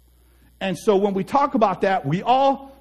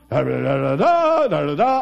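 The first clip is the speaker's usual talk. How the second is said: nonsense babble; 5 semitones lower, 3 dB louder than usual. Acted. Driving along in an imaginary conversation, babbling. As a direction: babble wordlessly, pitch leaping up and dropping.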